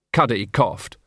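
plain reading voice

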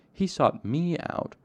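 "He sought me out" stressed, slow, high and loud; particular emphasis. A narrator's reading. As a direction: draw out and punch "He sought me out". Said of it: "said with particular emphasis".

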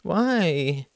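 put-on high, drawn-out child's whine; whining girl. A narrator's reading. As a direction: whine it like a reluctant little girl. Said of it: "whined the girl".

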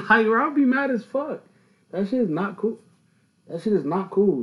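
high, loud laughing protest; half-laughing outrage; laughing, loud, mock-furious at the idea; laughing indignation. Real, not acted. Imagined anger at vending car.

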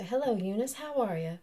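lightly Mississippi greeting; Mississippi accent. Acted. Wife greeting neighbour in play, Mississippi accent. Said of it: "Mississippi accents".

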